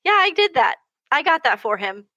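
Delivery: put-on high, proud boy boasting; high proud kid voice. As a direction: beam with pride like a big brother.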